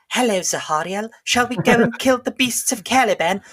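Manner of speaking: high, theatrical, overly polite; pompous audiobook knight. Retold or imitated. Mocking the Dark Angels audiobook voices as a pompous knight. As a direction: ham up a stiff noble knight. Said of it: "they spend the whole time just going".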